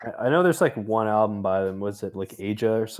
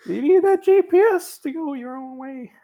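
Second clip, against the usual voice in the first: high, loud silly put-on voice; goofy made-up character voice; almost Shaq; 4 dB louder than usual. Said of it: "That was, like, almost Shaq".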